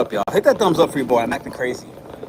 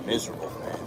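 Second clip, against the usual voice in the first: much lower, much softer moan; moping; 11 semitones lower, 9 dB quieter, faster than usual. Real, not acted. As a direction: sink into misery. Moping over crashed stream.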